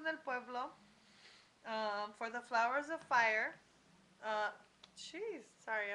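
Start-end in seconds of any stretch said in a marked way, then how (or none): 4.2-5.9 pausing mid-sip of champagne; talking between sips of champagne; drinking champagne. Real, not acted. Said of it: "I'm drinking champagne".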